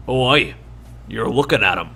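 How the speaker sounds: a hint of a proud dwarf leader answering. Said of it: "He goes".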